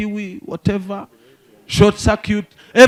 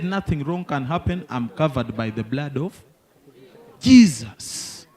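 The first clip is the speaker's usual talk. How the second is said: uncle's solemn voice; 5 semitones lower than usual. Retold or imitated. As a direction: explain it as holy truth, calmly. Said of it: "He said".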